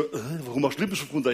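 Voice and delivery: fast, low, retold grumble; mildly irritated. Husband questions wife removing lipstick in car, mildly irritated. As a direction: rush out a puzzled, mildly testy question.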